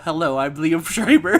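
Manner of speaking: mock polite introduction in his narration tone; imitating Liev Schreiber. Friend mocks actor's flat villain delivery, calm narrator voice. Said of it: "Liev Schreiber has no angry voice".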